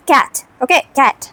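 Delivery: "cat" with a plain open A; normal wide A. Shown as a demonstration. Showing learners the right way, "cat" with plain wide A. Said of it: "You will say like this".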